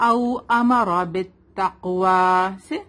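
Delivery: teacher's model recitation; Quranic recitation. Shown as a demonstration.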